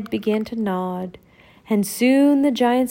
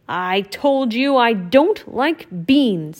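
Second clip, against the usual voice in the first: grumpy Donald; 3 dB louder, slower than usual. Acted. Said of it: "said Donald".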